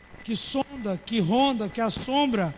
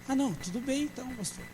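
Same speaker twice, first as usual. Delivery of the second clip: sheepish backing down; 8 dB quieter than usual. Retold or imitated. Member backs down after rebuke.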